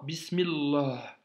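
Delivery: Bismillah slow, joined as one word; liaison. Shown as a demonstration. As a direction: run Bismi into Allah. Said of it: "Tu l'as fait toi-même la liaison". (Bismillah, lié, lentement)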